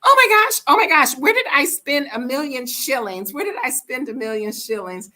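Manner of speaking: high, loud panicking, fading to worried; mock panic that trails off; shrill mock panic over lost money; panicked. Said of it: "Kept saying".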